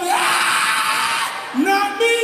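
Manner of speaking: sudden hammed-up yell; mock shout. Guy at church loses his tongues, mock shout. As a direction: burst out like a man out of words. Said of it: "The guy just shout".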